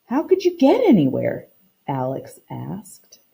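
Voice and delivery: reading a picture book aloud to the class, voicing the characters lightly; story narration. Teacher reading a story to her class, storytime narration. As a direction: read it like storytime for children.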